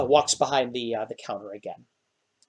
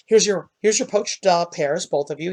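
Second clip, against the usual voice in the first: much higher gnome voice; gnome serving food; 4 semitones higher than usual. Acted. Gnome host serving pears to both heroes, much higher. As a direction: present the plates like a proud little host.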